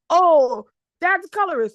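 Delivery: high, loud mock complaint; mild mocking whine; mocking light-skinned people. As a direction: sneer it like a whiny accuser. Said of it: "light-skinned people say".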